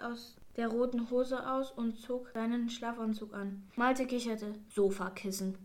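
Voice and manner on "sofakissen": a lightly voiced tiny teaser; squeaked word. A narrator's reading. Malte teasing the old man, lightly played squeak. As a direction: say it as a little cheeky aside. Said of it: "piepste er".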